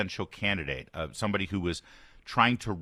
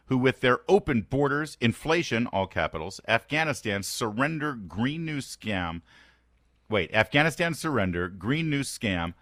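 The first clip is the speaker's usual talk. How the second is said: reading Trump's post; 4 semitones higher than usual. Retold or imitated. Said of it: "Included also are world leaders".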